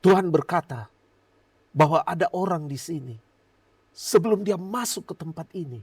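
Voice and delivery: lightly mimicked prophetic declaration; imitated prophet. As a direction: announce it like a message from God. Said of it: "tiba-tiba dapat pernyataan Tuhan".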